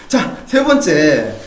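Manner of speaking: announcer call. Acted. Host announcing next question.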